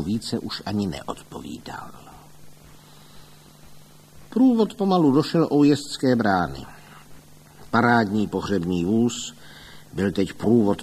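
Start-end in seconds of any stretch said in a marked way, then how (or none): none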